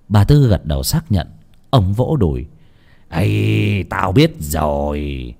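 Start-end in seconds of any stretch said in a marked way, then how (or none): 3.1-5.3 low, drawn-out dawning recognition; slow down as it all clicks; husband's long, knowing sigh of recognition; knowing realisation. Acted. Husband suddenly realises who it was.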